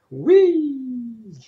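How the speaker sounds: a high, breathy whispered whee. Real, not acted. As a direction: whisper it in delight. Watching wave effect.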